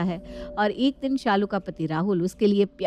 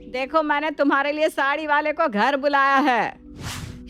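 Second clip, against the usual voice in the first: mother-in-law calling her daughters-in-law from downstairs; higher voice, calling up the stairs; 6 semitones higher, slower than usual. Acted. Mother-in-law calls her daughters-in-law down to choose sarees, calling out. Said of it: "शांति अपनी बहू को आवाज लगाती है".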